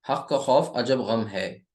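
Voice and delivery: slow, deliberate listing; steady recital of the mnemonic. Shown as a demonstration. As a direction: recite हक का खौफ अजब गम है slowly. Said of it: "moon letters कौन से थे".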